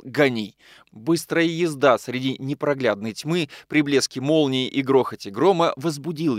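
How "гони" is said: plain reading voice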